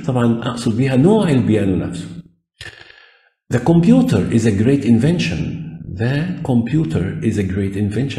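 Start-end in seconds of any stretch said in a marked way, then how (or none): 3.5-5.7 slow, spaced English; teacher modelling; slow example sentence. Shown as a demonstration. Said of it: "يبقى أنا حددته هنا". 6.0-8.2 slightly slow, ending on a rise; careful classroom repeat. Shown as a demonstration. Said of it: "يبقى أنا حددته هنا".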